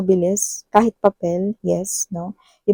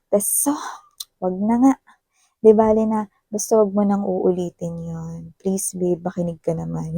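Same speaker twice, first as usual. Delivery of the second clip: anger melting away. Retold or imitated. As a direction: let the anger go out of you and plead gently. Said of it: "napatay dito yung apoy".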